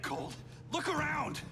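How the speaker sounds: urgent, drawn-out high shout; exasperated shout. Acted. Hero urging Cold to see the invasion, exasperated shout. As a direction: cry it out to make him see sense. Pleading with attacker amid invasion.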